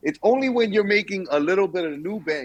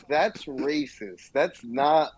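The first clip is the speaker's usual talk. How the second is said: slow deadpan wife voice; wife, slow and flat; slower than usual. Retold or imitated. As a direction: drag it out like an unimpressed wife. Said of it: "she was like".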